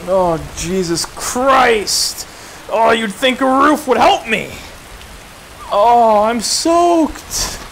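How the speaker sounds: startled exclaiming. Real, not acted. Woken soaked in the rain.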